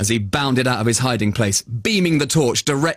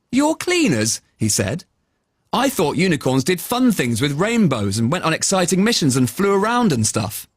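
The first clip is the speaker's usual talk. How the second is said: put-on astonished boy; 4 semitones higher than usual. Travis astonished.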